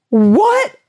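high, rising cry of disbelief; comically stunned, pitch shooting up; mock shock. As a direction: blurt it in hammed-up shock. Lad hears his mother died.

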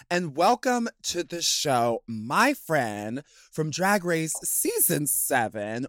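bright show-host introduction. Acted. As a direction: hype up the guest like a host.

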